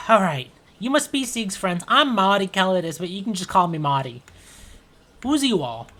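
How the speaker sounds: friendly Marty. Acted. Marty meeting Sieg's friends, high and friendly. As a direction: introduce yourself warmly.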